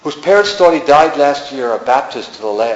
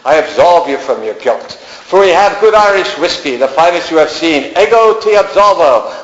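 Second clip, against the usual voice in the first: a light Irish lilt, gently reassuring, rising higher by the Latin; charming Irish lilt; 3 semitones higher than usual. Acted. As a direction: soothe him in a lilting Irish accent. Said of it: "with her charming Irish lilt".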